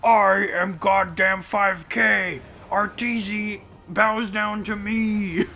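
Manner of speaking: slow, boastful in-game hero voice, lightly altered; Slardar voice. Acted. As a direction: announce yourself like a smug Dota hero. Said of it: "That's a Dota two, uh, ref".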